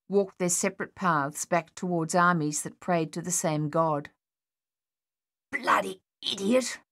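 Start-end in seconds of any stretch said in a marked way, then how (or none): 5.5-6.8 chastising. A narrator's reading. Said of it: "Thaddeus chastised".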